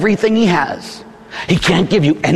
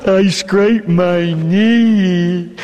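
put-on child voice; 3 semitones higher, much slower than usual. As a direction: whine like a hurt small child. Child calls to mother.

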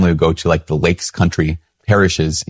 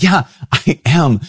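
sheepish admission; 3 semitones higher than usual. Retold or imitated. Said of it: "I'm like".

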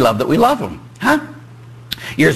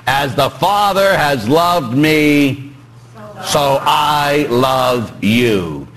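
slow tender scripture; much slower than usual. Retold or imitated. Quoting Jesus slowly, half-sung.

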